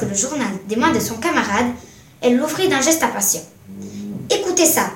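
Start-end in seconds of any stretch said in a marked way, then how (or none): 4.3-4.9 high, eager call for attention; urgent, excited announcement; excited exclamation. A narrator's reading. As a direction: exclaim it with raised pitch. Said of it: "s'exclama-t-elle".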